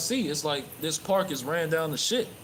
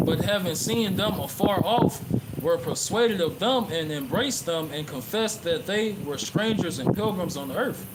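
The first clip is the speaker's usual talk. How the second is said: scripture reading; 2 semitones higher than usual. Acted. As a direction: read the verse like a preacher, deliberate. Reads scripture aloud in sermon.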